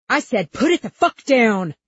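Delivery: high, loud, urgent yell; angry shouted order. A narrator's reading. Cop to girl with revolver, angry shout. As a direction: shout it like a panicked officer.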